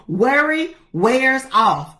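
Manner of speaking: "Worry wears" drawn out slowly, rhyming; deliberate home pronunciation. Shown as a demonstration. Speaker repeating her saying for listeners, deliberate home pronunciation. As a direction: stretch out "Worry wears off" word by word. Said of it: "I gotta say it like that".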